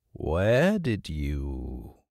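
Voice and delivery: low, drawn-out question; slow curious hawk. Acted. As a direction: lean in and ask slowly.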